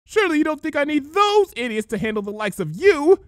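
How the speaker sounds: high, loud scornful villain; sneering queen taunting the heroes; changeling villain voice. A narrator's reading. Changeling taunting the heroes, high and scornful.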